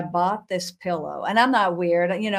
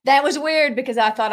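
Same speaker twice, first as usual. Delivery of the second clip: laughing; 5 semitones higher, 5 dB louder than usual. Real, not acted. Laughing about creepy pillow.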